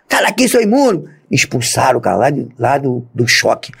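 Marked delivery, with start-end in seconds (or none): 0.1-1.1 high, scornful yell; shouted expulsion. Retold or imitated. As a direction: throw him out with contempt. Superior throwing him out. (grito de desprezo, agudo)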